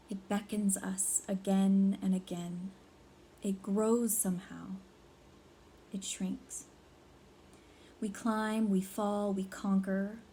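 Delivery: slow, measured poetry reading with long pauses; deliberate spoken verse, phrase by phrase; poem recital. Acted. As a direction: recite it solemnly, letting each phrase stand alone. Recites own written poem.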